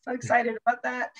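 dry, sarcastic enthusiasm. Acted. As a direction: say it like you don't mean it. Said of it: "a little sarcasm in the voice".

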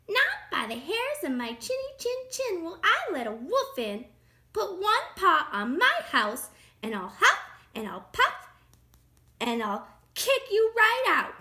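high, loud storybook threat; rude pig shouting. A narrator's reading. Pig threatens the wolf at the door, shouting. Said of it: "shouted the pig".

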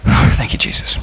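whispered thanks; under his breath. Retold or imitated. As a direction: whisper it to yourself. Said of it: "every now and then".

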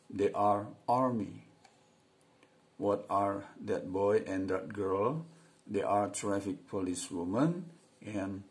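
slow, careful reading aloud; model reading. Shown as a demonstration. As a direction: read each line clearly for learners. Membaca dialog contoh. (membaca pelan dan jelas untuk murid)

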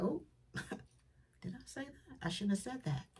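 breathy, embarrassed whisper to yourself; whispered self-reproach. Retold or imitated. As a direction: catch yourself saying it, hushed. Self-talk after a slip.

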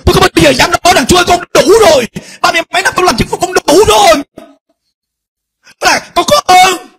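high, loud preacher cry; shouted. Retold or imitated. Preacher crying out to God before the congregation, loud. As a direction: cry it out to the crowd at full voice.

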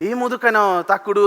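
Lal Alex impression. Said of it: "Lal Alexander പോലെ".

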